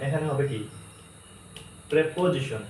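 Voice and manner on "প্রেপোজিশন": "প্রিপোজিশন" starting with preh; "প্রিপোজিশন" with e, not i, first; correct pronunciation. Shown as a demonstration. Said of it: "প্রি না, প্রে হবে".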